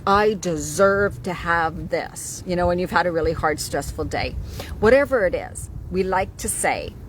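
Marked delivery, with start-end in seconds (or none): 0.1-2.4 slow indulgent quote. Retold or imitated. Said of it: "I'm like".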